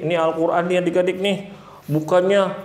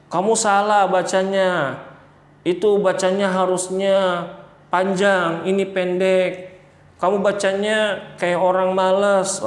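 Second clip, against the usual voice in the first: mild scolding teacher; 5 semitones higher than usual. Retold or imitated. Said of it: "gurunya marah apa enggak".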